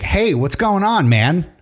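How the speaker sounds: a cartoon-voice operator buddying up to the caller; friendly voiceover operator. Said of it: "get voiceover people that would do".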